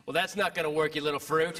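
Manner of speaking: scornful dad. Retold or imitated. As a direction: drop low and sneer like a father. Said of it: "my dad saw ... and thought".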